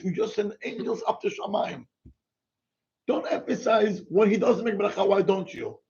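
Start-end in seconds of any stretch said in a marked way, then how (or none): 0.0-1.8 excited praise. Shown as a demonstration. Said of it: "emphasize, wow".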